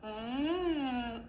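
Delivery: warm-up hum through the straw; short straw phonation hum. Shown as a demonstration. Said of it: "I'll go".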